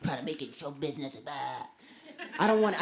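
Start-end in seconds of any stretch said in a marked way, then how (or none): 0.0-1.7 low, soft brush-off; dismissive. Retold or imitated. Roommate's TV plan, dismissed low and soft. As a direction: wave it away, bored. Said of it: "I was like".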